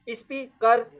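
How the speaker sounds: स्पीकर said as two separate parts, ispee-kar; teacher's two-part split of स्पीकर; split into syllables. Shown as a demonstration. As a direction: pause between स्पी and कर in स्पीकर. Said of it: "कितने part हो गए".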